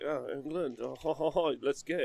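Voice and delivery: lightly hammed French cheer; mock French accent. Imitating French guys who like England, mock French accent. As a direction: roll out a cartoon French laugh and accent. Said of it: "French guys who are like".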